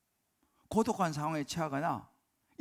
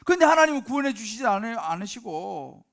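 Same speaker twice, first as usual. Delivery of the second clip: loud, high, aggrieved protest to God; Moses complaining to God; 7 semitones higher, 12 dB louder than usual. Acted. Moses protests to God for his people, loud aggrieved outcry. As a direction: cry out as if wronged by heaven. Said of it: "뭐 그런 이제 이야기한 거예요, 모세가".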